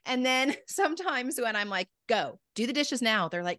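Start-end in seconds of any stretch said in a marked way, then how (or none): 2.1-3.3 a blunt order with no softening; a direct command to a child, nothing sweet about it; harsh. Retold or imitated. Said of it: "Gosh, you're so harsh".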